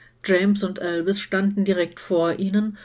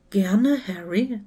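whispered, slow greeting; slower than usual. A narrator's reading. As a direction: breathe it gently, slowly. Luna greets Harry softly. (leise geflüstert)

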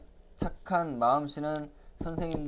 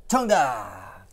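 excited praise; 7 dB louder, much slower than usual. Acted. Praising answer.

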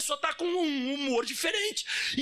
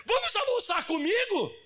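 sweet invitation; 9 semitones higher than usual. Retold or imitated. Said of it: "Aí chegou meio-dia".

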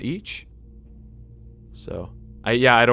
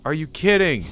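frustrated disbelief; 4 semitones higher, 3 dB louder than usual. Real, not acted. Frustrated at missing shots.

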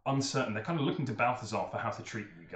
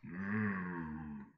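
stern ogre chief; 5 semitones lower, much slower than usual. Acted. GM voices Balthazar.

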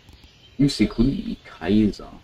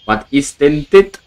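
"dit" drawn out, higher and rising; surprised disbelief; 5 semitones higher, 4 dB louder, slower than usual. Real, not acted. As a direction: ask "Was ist denn dit?" slowly, rising on "dit". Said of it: "repeated question".

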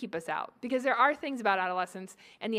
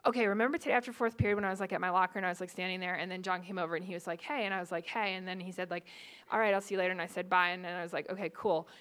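put-on rapid, fretful teenage chatter, a bit softer; anxious teen girl; 4 semitones lower, 3 dB quieter, faster than usual. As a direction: rattle it off like a worried teen replaying her day. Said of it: "the conversation generally goes something like".

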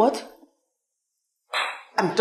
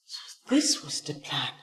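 low and soft, cold; low bitter accusation; 10 semitones lower, 16 dB quieter than usual. Acted. Hurt Kemi quietly accusing Dennis.

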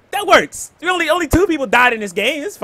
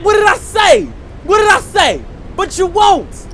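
yelled taunt; 6 semitones higher than usual. Real, not acted. Taunting enemy, yelling at stream.

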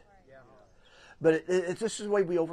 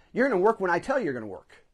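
fast, a touch louder snapping boss; harsh boss; 4 semitones higher, 4 dB louder, faster than usual. Retold or imitated. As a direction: bark it like a bossy manager.

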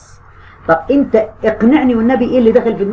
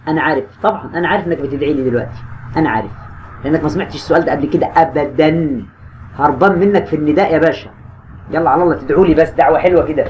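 playful teasing; 5 semitones lower than usual. Acted. Teacher joking that students are cursing him. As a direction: tease them gently for blaming you. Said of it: "teasing students who curse him".

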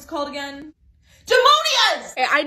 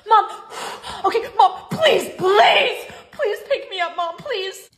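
put-on pleading kid; 3 semitones higher, slower than usual. Kid begging mom at night.

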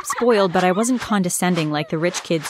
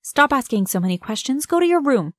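higher, heated mother's shout; angry shout; 5 semitones higher than usual. Acted. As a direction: shut down the questions angrily. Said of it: "my mom shouted".

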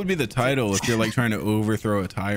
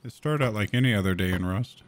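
mock Stevie narration; 3 semitones lower than usual. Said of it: "I'll do my Stevie impression".

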